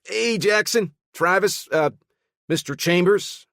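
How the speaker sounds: high, bright-spirited greeting; chipper and animated. Acted. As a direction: bounce in with cheerful energy. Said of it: "voice was surprisingly chipper and animated".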